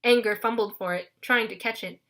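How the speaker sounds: ordinary delivery, nothing marked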